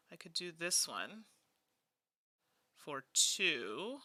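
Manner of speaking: unvoiced whisper while working out a move; whispering to herself. Real, not acted. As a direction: breathe it out like thinking aloud. Counting moves under her breath.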